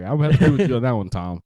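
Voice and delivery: fast, loud anchor sign-off; news anchor impression. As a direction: toss it back like a TV anchor. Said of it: "You said it like a news anchor".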